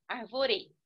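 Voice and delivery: Arvore wrongly stressed as ar-vo-RÉ; stress on the last syllable. Shown as a demonstration. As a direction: push the final RE in Arvore. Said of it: "seria no re". (Arvore com a tônica no RE final)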